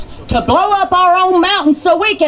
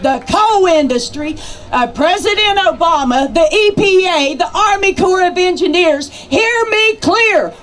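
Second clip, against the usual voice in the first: rally speech; 3 semitones higher than usual. Real, not acted.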